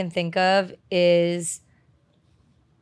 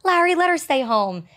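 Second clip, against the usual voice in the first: higher, lightly acted pleading; retold mom's plea; 8 semitones higher than usual. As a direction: imitate mom gently lobbying dad. Voices easygoing mom pleading with dad.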